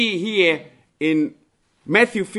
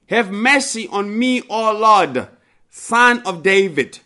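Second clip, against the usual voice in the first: raised, higher pleading cry; 5 semitones higher, 4 dB louder than usual. Acted. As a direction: call out to him for mercy, louder and higher. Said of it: "cried out to him".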